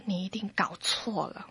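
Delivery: breathy whisper of denial; whispered disbelief told to the doctor. Retold or imitated. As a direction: hush it as if barely daring to say it. Denying the diagnosis to doctor.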